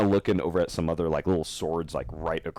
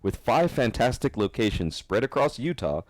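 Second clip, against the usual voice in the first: upbeat podcast ad read; sponsor ad read; 4 semitones higher than usual. Acted. Host reading Game Haven sponsor spot to listeners, ad-read voice. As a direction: sell the store to listeners, like an announcer.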